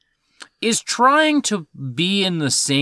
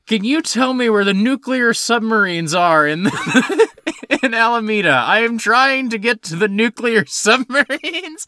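laughing through a light mock Russian accent; a hint of Chekhov's Russian accent, cracking up; 7 semitones higher, 3 dB louder than usual. Chekhov asking a cop for directions, light Russian accent.

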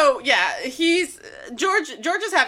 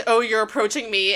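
understated mock menace, close to the usual voice; Jojo; 2 semitones lower than usual. Quoting an anime line to co-hosts, lightly voiced Jojo. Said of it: "Jojo voice".

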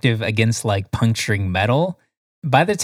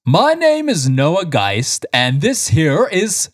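announcer intro; 6 semitones higher, slower than usual. Pretend. Mock grand intro.

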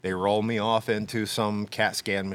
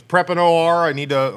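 urgent doctor order; 7 semitones higher, 10 dB louder than usual. Retold or imitated.

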